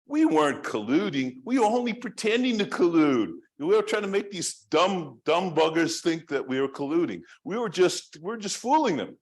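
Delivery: high-pitched put-on protesting voice; Pratt. Acts out Pratt's ingenious defense.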